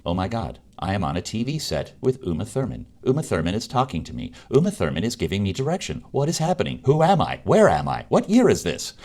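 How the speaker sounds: spiral into starstruck panic. Retold or imitated. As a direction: actor meeting Uma Thurman, rising frantic disbelief. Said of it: "in my brain, I'm going".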